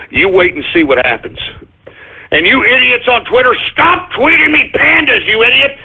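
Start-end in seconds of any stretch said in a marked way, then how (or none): 2.3-5.8 hammed-up furious outburst; angry yelling. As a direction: yell at the idiots on Twitter. Yelling at Twitter trolls.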